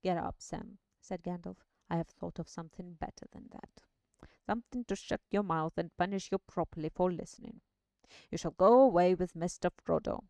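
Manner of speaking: low wizard voice; a lightly voiced old wizard; old man voice. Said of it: "old man voice".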